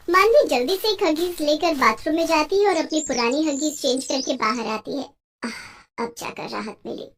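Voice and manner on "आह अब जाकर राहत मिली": relieved sigh. Acted. Relief after changing diaper.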